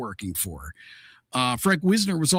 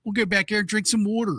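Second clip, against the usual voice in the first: pitched-up mock Baltimore talk; Baltimore accent; 4 semitones higher than usual. Co-host joins the Baltimore woman bit, mock Baltimore accent. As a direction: lean on Baltimore vowels in "water". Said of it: "the Baltimore accent".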